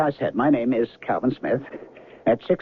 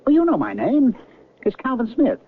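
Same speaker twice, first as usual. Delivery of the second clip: high, rising frustration, louder; agitated insistence; 9 semitones higher, 3 dB louder than usual. Acted. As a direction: push him up high, bewildered and exasperated. Man insists she knows him.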